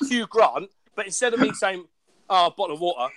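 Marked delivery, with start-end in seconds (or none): 2.3-3.1 bottle of water with dropped t sounds; common British accent. Retold or imitated. The speaker showing his common home accent. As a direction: glottal "bo'le of wa'er". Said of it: "that's how I say it here 'cause I'm common".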